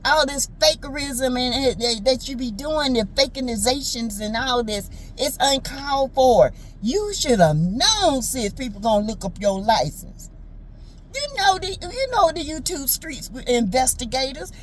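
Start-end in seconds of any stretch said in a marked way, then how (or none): 0.0-10.3 a hint of a scolding aunt; Aunt Ann voice. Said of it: "like in my Aunt Ann voice".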